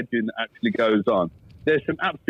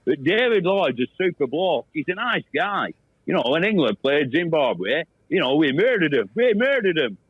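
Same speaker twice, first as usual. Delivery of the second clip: David Lloyd impression. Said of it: "What about ... David Bumble Lloyd?".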